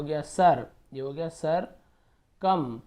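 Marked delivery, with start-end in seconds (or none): 2.4-2.8 "कम" as a slow separate syllable. Shown as a demonstration. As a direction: isolate "कम" like a piece of a word. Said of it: "तोड़ तोड़ के पढ़ेंगे".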